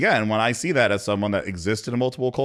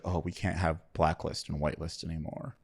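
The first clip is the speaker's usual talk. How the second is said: mock performative; 3 semitones lower, 5 dB quieter than usual. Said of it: "everybody ran around and was like".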